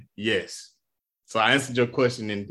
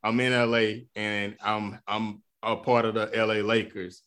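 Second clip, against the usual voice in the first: LeBron answer; 2 semitones lower than usual. Pretend. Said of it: "he could have said".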